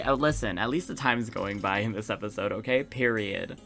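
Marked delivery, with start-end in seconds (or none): none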